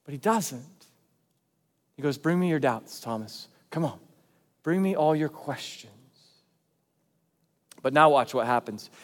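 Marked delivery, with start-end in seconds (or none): 2.2-5.9 soft, low-key coaxing; gentle welcome. Acted. Jesus welcoming Thomas's doubts, gentle. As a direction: invite him in gently, voice easing down. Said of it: "He's so gentle that he welcomes people".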